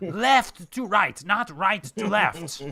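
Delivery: very loud, high, drawn-out full-blast shriek. Voicing a strict taskmaster correcting shoe workers: screaming at the top of her lungs. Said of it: "she just screams at the top of her lungs".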